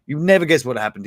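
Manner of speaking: You never guess with never pushed out loud; stress on never. Shown as a demonstration. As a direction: hit never to tease the story. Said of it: "And you never guess what happened".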